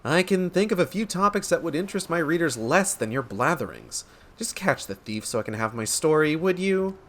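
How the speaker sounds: lightly voiced, dry reporter; understated irritation, wanting the story; unimpressed reporter. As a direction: cut down the windbag, quietly.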